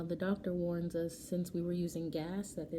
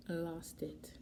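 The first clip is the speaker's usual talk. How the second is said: whispered; 5 dB quieter than usual. Real, not acted. Admits breaking down.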